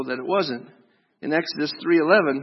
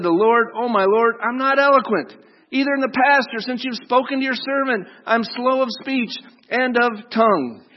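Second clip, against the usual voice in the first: whining Moses; 5 semitones higher than usual. Acted. Moses makes excuses to God.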